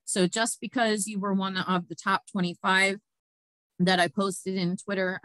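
talking around a lozenge; mouth full. Real, not acted. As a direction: speak with a lozenge in your mouth. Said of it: "I have a lozenge in my mouth".

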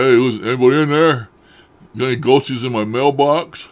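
loud playful call into an echoing mailbox. Retold or imitated. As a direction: shout hello down into the box, teasing. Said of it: "I said".

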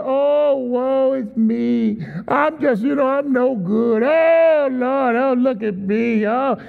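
mock self-pity, a drawn-out sighing woe-is-me; whining victim. Preacher mocking a complaining victim, mock whining. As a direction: ham up a whiny complainer. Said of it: "they're always complaining".

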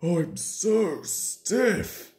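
loud oohs, slow aching complaint; groaning. A narrator's reading. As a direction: groan and stretch out each word stiffly. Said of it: "he groaned".

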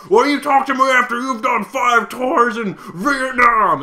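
retold war vet yelling at a lady with a PhD, furious and slow; mock furious shout. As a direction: rage like an old vet who flipped his lid. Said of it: "the guy just flipped his lid".

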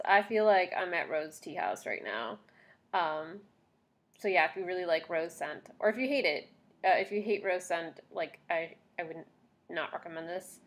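talking through stiff facial mask; wearing a sheet face mask. Real, not acted. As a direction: lips framed by wet sheet. Seen 0: Wet sheet mask covers her face while talking; removed by 19.1.

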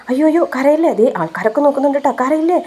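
high, fretful coaxing to stop crying; anxious pleading comfort; coaxing not to cry. Retold or imitated. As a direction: soothe her like a worried friend. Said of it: "എന്ന് പറയുന്നുണ്ടേ".

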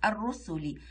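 الرسلي as ar-rusuli, the lam silent, r doubled; correct sun-letter pronunciation. Shown as a demonstration. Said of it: "ما نقولش الرسل".

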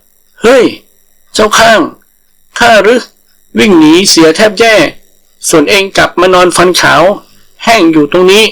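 high, scolding gasp; puffed out and fed up; exasperated tiger. Acted. Tiger scolding the langur lying still, high and exasperated.

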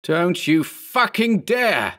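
slow, high-pitched angry warning; urgent acted yell. A narrator's reading. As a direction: draw out the threat, pitched well up. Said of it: "Berman yelled".

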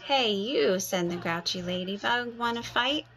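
high, loud challenge to fight; grouchy ladybug picking a fight. Acted. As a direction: bark it out, spoiling for a fight.

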